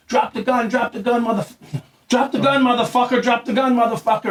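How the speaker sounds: acted-out gunpoint command, not full volume; police command. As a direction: order an armed man to disarm.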